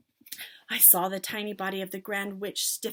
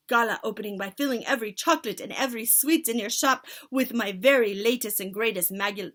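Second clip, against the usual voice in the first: witch leader; 2 semitones higher, 6 dB louder than usual. Acted. Grand High Witch.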